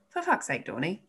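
mock-annoyed but affectionate; teasing exasperated for fuck's sake; eye-roll exasperation. Shown as a demonstration. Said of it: "you know full well that my intonation is".

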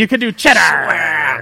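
slow pirate drawl on cheddar. Shown as a demonstration. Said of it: "Like a pirate?".

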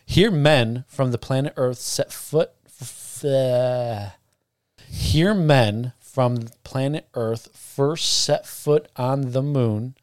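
slow, careful plaque reading; reading slowly. Shown as a demonstration. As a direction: read each word slowly. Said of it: "I'm gonna read it like a robot".

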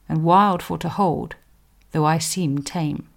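measured poetry recitation; poem reading. Acted. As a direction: read it like a Tudor poem aloud.

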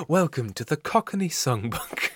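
soft, measured advert voice; mock album advert. Host selling a Cockney song collection, soft mock announcer. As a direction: announce it like a songbook commercial.

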